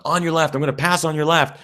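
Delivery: mild mock yell. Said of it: "So I'm like".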